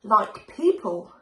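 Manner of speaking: loud, slow menacing dragon; dragon roar. A narrator's reading. Dragon threatening the townsfolk, slow roar. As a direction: drag it out with menace. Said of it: "it roared".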